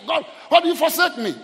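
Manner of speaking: high, loud cry to God; screamed plea. Retold or imitated. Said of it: "he just screamed like that".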